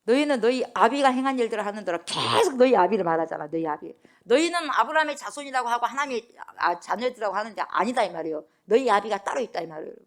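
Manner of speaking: loud, indignant preaching rebuke; loud rebuke of the crowd who claim Abraham as father; angry rebuke. Retold or imitated. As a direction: scold them as if Jesus is fed up. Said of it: "그러니까 막 화가 난 거죠".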